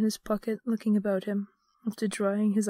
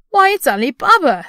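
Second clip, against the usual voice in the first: high, loud burst of delight; ecstatic exclamation; 6 semitones higher, 13 dB louder than usual. A narrator's reading. Scrooge spotting Ali Baba, exclaiming in ecstasy. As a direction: cry out in overjoyed recognition. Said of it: "Scrooge exclaimed in ecstasy".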